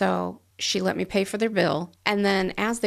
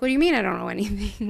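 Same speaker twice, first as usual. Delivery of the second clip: incredulous; 4 dB louder, faster than usual. Retold or imitated. Surprised at paid bill.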